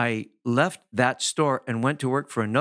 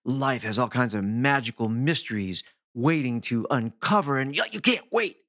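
animated talk. Shown as a demonstration. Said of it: "You talk like that?".

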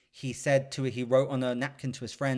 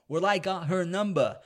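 higher, smug imitation of the gloating hero; 6 semitones higher than usual. Retelling the bar scene to a friend, smug gloat. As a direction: savor the win, mock smug. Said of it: "And he's like".

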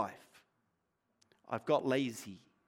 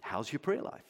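pointed question; 6 semitones lower, 13 dB quieter than usual. Real, not acted. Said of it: "pointed question to congregation".

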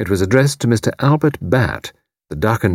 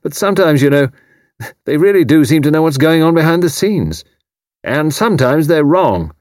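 loud, high hearty military man; retired commander teasing his neighbour, loud and hearty; bluff old commander; 7 semitones higher, 4 dB louder than usual. A narrator's reading. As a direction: boom it out like a blustering retired officer. Haydock voiced in audiobook.

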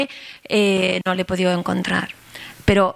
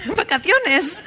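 laughing; 10 semitones higher, slower than usual. Retold or imitated. Laughs at her own naive guess.

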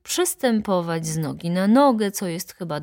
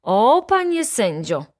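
louder, higher appeal to the judge; protesting cry; 6 semitones higher, 5 dB louder than usual. A narrator's reading. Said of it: "krzyknęła baronowa". (pełen protestu okrzyk)

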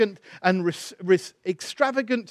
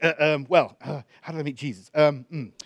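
halting, reluctant start with hesitations; flustered. Retold or imitated. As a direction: imitate a thrown man stalling for words. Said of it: "he was frustrated and kind of readjusted".

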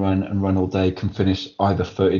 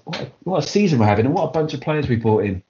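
rising fan excitement, a bit higher and brighter in pitch; getting excited; 3 semitones higher than usual. Real, not acted. Fan gushing over his club's new signings, excited. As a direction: let the enthusiasm carry you away mid-sentence. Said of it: "I'm getting excited".

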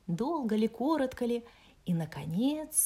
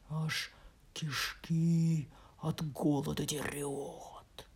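hushed wolf voice; 4 semitones lower, slower than usual. Acted. Wolf trails off.

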